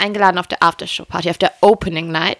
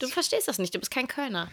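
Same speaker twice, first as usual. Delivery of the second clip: mock sulky murmur; 4 semitones higher, 14 dB quieter than usual.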